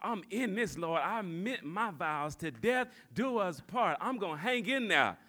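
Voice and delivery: low, hushed prayer to the Lord; mock devout vow. Newlywed vowing to God to stay, mock devout. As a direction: murmur a solemn promise, soft and low. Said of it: "they acting right, and you like".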